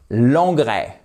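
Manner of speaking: normal talking voice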